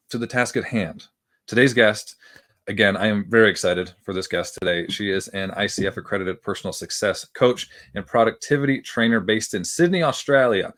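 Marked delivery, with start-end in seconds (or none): 5.7-10.7 a quick put-on Australian accent on the place name; light jokey Australian accent. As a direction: toss in a mock Aussie twang. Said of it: "I felt I had to do the accent there".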